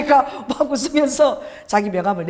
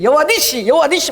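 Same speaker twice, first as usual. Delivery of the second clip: mild shout; 6 semitones higher, 3 dB louder than usual. Retold or imitated. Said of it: "소리를 질러대고".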